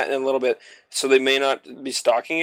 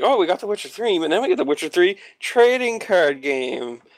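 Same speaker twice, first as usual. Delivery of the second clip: higher, hammed-up company pitch; mock sales pitch; 5 semitones higher than usual. Mocking the game companies' sales pitch.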